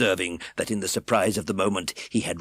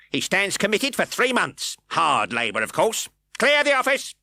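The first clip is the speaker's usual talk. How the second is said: stern sentence; 12 semitones higher, 6 dB louder than usual. A narrator's reading. Fang sentencing.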